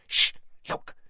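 very soft whisper into an ear; hushed, secretive whisper; breathed whisper. A narrator's reading. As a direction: breathe it urgently, barely audible. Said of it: "she breathed in Harry's ear".

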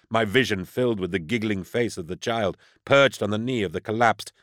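usual speaking voice

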